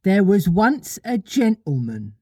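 lightly voiced little mother beginning her tale; Wendy telling a story.

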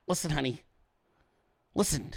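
gentle pleading. Retold or imitated. Reasoning softly with his wife.

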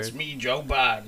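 mock southern accent, lightly done; goofy self-introduction with a hint of southern accent; Joe Biden. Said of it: "Why'd you give him a southern accent".

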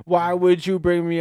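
high, teasing mock laugh; imitated laughter. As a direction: mimic a wife laughing in your face. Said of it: "she's just laughing in my face".

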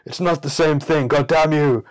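high, loud indignant nitpicker; mock pedantic biologist. Mock biologist snapping at the teller over toad versus frog. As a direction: huff like an offended biologist correcting you. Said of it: "you're like".

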